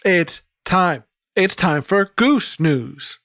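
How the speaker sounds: high honking news host; silly clown. Pretend. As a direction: ham up a goofy goose anchor. Goose news host opening.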